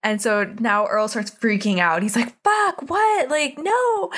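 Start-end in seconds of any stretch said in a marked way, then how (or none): 2.4-4.1 mock panic. Earl freaks out.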